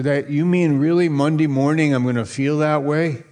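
mildly doubtful churchgoer asking; doubtful congregant. Retold or imitated. Congregant doubting the pastor, lightly voiced. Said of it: "You might say, "Pastor".

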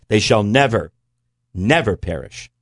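"never, never" each hit with weight; stress on never. Shown as a demonstration. Reading the double negative aloud, stressing never. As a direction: lean hard on both "never"s. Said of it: "intensifies the force of the negative".

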